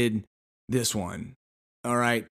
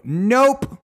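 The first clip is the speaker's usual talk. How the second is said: mock firm nope; 10 semitones higher, 6 dB louder than usual. Flat refusal to saleswoman.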